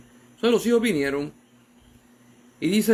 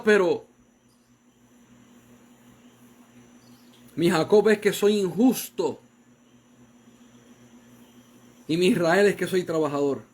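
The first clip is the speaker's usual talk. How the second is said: put-on a father admits his faults to his kids; earnest parent's confession; 2 semitones higher than usual. Voicing a parent to children.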